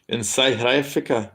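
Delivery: South African accent, "South" said like "scythe"; South African accent, "Africa" as "aifrica". Shown as a demonstration. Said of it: "Is that a good South, South African accent?".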